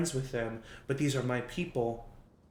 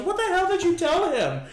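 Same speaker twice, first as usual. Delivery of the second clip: much higher, louder furious accusing yell; angry demand; 9 dB louder than usual. Acted. Derek confronts Penny about the message, angry yell. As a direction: turn on her and demand an answer.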